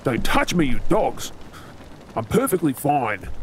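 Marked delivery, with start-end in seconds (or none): 0.0-1.3 angry shout. Acted. Wounded, pushing crew away.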